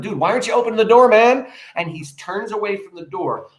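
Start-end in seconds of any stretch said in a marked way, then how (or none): 0.0-1.5 mock casual wife. Retold wife, slangy and quick.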